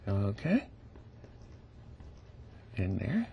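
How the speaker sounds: quiet. Real, not acted. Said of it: "I get very quiet when I'm doing detail".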